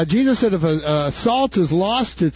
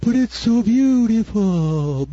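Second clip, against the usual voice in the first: slow, put-on tiny bug, dazzled; slow awestruck bug voice; little bug voice; 3 semitones higher, much slower than usual. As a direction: croon it like a hypnotised little bug. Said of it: "this little bug was going".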